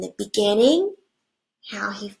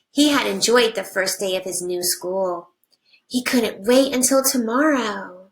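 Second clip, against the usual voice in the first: put-on reading to children. Teacher reading a picture book to her class, animated storybook voice.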